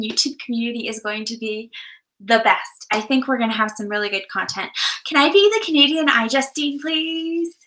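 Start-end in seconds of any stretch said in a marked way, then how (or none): 5.1-7.5 playful pleading. Pretend. Playfully begging to be iJustine.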